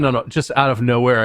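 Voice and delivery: usual speaking voice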